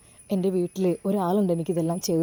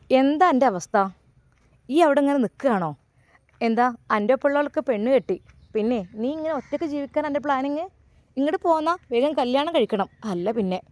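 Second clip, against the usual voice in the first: scolding mother; 3 semitones higher than usual. Acted. Mother scolding son on phone.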